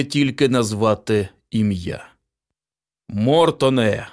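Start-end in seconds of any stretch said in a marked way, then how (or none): 3.1-4.1 slow, drawn-out call of the name. A narrator's reading. Father calling his son, slow and drawn out. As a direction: summon the boy from the next room. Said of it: "покликав містер Ді".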